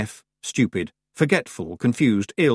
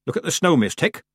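put-on old woman voice; 6 semitones higher than usual. Old witch voice in story.

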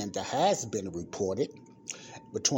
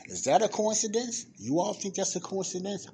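incredulous; 10 semitones higher than usual. Real, not acted. To listeners, asking if it's coincidence, incredulous and high. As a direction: pitch jumps high in mock disbelief.

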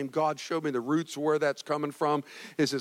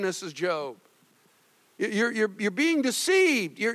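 a firm but kind husband, lightly voiced; 9 semitones higher than usual. Job firmly warning his wife, lightly acted and steady. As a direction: hold your ground gently, no give. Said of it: "but he's being firm".

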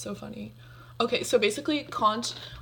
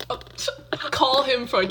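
laughing; 4 semitones higher, slower than usual. Real, not acted. Laughing at the code name.

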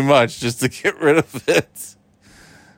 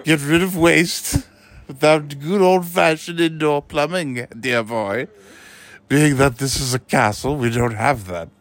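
Dumbledore voice; 3 semitones lower than usual. Pretend. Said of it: "Harry, I need you".

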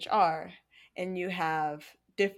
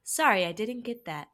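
computer voice; 3 semitones higher than usual. Pretend. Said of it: "how good of a computer voice I had".

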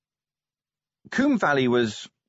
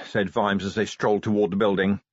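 ordinary delivery, nothing marked

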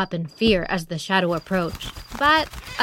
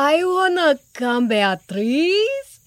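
eager porcupine; 7 semitones higher, slower than usual. Acted. Porcupine begs to join.

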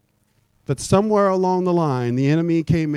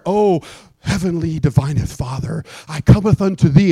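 lightly mocking old-English prayer voice; a touch of pompous churchy prayer; King James prayer; 4 dB louder than usual. Preacher mocking people who pray in King James English, lightly pompous. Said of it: "we pray King James".

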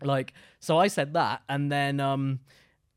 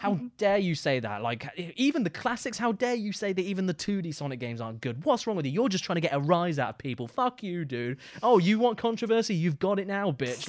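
mock angry gamer; 3 semitones higher than usual. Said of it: "getting really angry".

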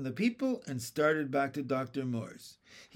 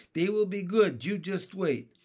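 raised, mildly excited promise; happy cry; 4 semitones higher, 3 dB louder than usual. A narrator's reading. Sister promising a good supper, happy excitement. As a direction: promise it happily, pitched up. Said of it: "cried Jessie happily".

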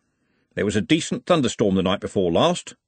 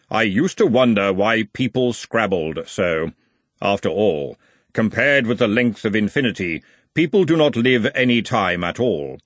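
grim reaper voice. Acted. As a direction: speak as Death, unhurried. Death muses on mortality.

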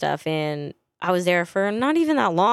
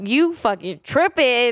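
higher, drawn-out mock disbelief; incredulous reaction; 5 semitones higher, 4 dB louder, slower than usual. Reacting to a cheesy TikTok, drawn-out incredulous retort. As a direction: call it out, slow and high. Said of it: "I was like".

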